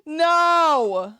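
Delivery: high, loud, firm no; loud protest. Real, not acted. Streamer refusing to let her co-host call himself fat, loud no. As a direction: shut down a self-insult. Refusing co-host's self-insult.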